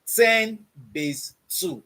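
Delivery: ten base two said very slowly, word by word; slow dictation. Shown as a demonstration. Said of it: "let's say log".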